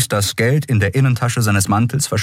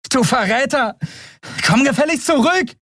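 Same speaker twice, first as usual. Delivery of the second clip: high, furious calling after; angry yell. Acted. Endriel yelling at Keru who abandoned them, angry. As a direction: scold the traitor.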